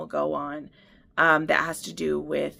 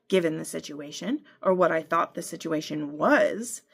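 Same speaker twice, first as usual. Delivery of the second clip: through gritted teeth. Acted. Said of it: "I said through gritted teeth".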